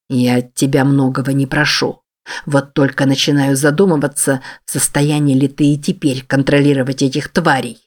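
low, heavy male voice with a sigh behind it; grim low man's voice. Acted. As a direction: speak low, as a weary, menacing boss. David's lines, lower voice.

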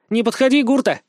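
put-on a girl warning an approaching rival off, shouting; shouted warning. A narrator's reading. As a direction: yell to keep him back. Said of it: "крикнула она".

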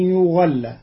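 يغل بضم الياء وفتح الغين, yughall; Qalun reading. Shown as a demonstration. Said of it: "بضم الياء وفتح الغين مبنيا". (يغل بضم الياء وفتح الغين)

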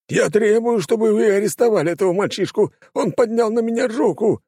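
high, loud, self-pitying wail; whining demand. A narrator's reading. Baron whining to the gendarmes to arrest the boy. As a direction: demand it like a wounded victim. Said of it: "запричитал он".

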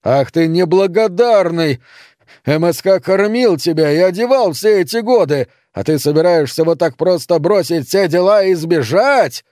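angry yelling. Acted. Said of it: "заорал в ответ отец".

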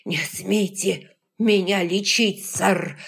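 gasping for air, forcing words out; wind knocked out. Acted. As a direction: squeeze it out short of breath. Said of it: "Хватая ртом воздух, он выдавил". (задыхаясь, с трудом выдавливая)

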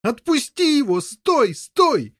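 high, loud repeated cries; shout. Acted. Boy pleading with brother to stop stabbing. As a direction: keep yelling stop, desperate. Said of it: "кричал Гаррет".

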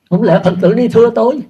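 a chuckle through a mock question; laughing. Real, not acted. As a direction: laugh at the absurd idea. Joking about followers suing him. (vừa nói vừa cười)

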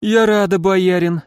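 drowsy, drawn-out words; sleepy drawl. A narrator's reading. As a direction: stretch it out half asleep. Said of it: "сонно протянула Эльза".

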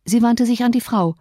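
usual speaking voice

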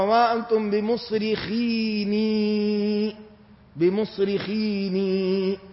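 بمصرخيني soft, with the nun sounded; soft recitation keeping "-ni" at the end of بمصرخيني; original uncontracted form. Shown as a demonstration. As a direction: draw out بمصرخيني as "bimusrikhiinii". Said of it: "أصل الكلمة".

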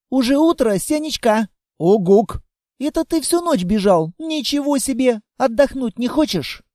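put-on a small girl waking to find it morning; surprised little girl.

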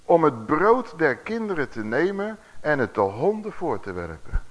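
slow, emphatic Bible reading; scripture reading. A narrator's reading. Preacher reading the answer to the congregation, slow and emphatic. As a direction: stretch the words out like a proclamation. Reads the Bible verse aloud.

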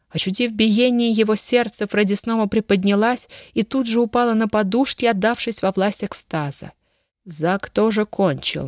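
plain reading voice

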